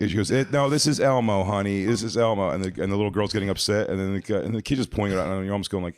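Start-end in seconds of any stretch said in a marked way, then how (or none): 0.3-2.5 mom scolding. Retold or imitated. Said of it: "she was yelling at the kid".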